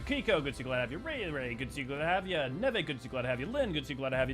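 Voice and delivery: rapid-fire greetings in a rattling rhythm; auctioneer rattle. Real, not acted. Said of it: "Sounding like an auctioneer".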